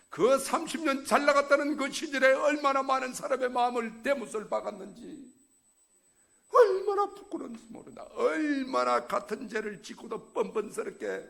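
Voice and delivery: loud, high sermon exhortation; fiery preaching. Acted. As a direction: preach it out to the congregation. Preaching at full force. (큰 소리로 열정적으로 설교하듯)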